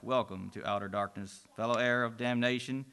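low quiet menacing demon. Acted. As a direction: greet him low and sinister. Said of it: "the voice of a demon replies".

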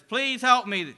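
high loud desperate cry; man falling alone, shouting for help; shouting again. Acted. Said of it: "the man shouts into the darkness".

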